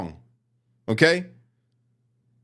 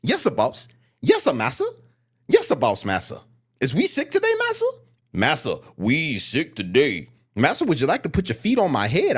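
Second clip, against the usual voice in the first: a lightly voiced groveling servant; mocking servile voice; 2 semitones higher than usual. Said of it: "it's like this".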